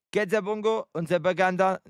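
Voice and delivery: put-on made-up Spanish in a light Mexican accent; half-hearted attempt at a Mexican accent; mock Mexican accent. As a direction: improvise a rough Mexican accent. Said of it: "Mexican accent".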